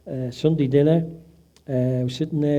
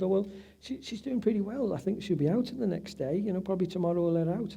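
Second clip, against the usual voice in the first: staff reassurance; 5 semitones higher, 5 dB quieter than usual. Retold or imitated. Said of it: "She said".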